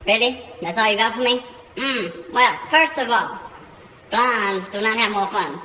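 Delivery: dish out answers with attitude; sassy witch. Acted.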